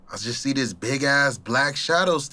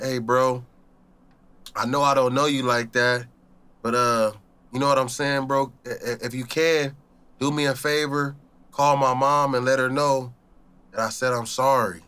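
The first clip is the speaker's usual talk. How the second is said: weak last words; 2 semitones lower than usual. Retold or imitated. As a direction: say goodbye, barely holding on. Dying man's last request.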